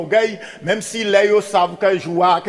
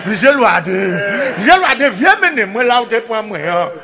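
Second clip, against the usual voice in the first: pig's call; 4 dB louder than usual. Acted. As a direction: call out as the squealing pig. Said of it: "comme si il voit cochon". (kochon ka kriyé)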